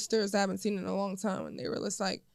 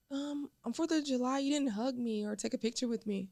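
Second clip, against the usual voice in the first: hurt son; 5 dB quieter than usual. Retold or imitated. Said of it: "He was like".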